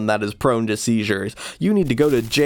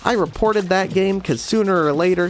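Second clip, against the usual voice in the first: indignant reviewer; 6 semitones higher than usual. Acted. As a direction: scoff at the game in a raised voice.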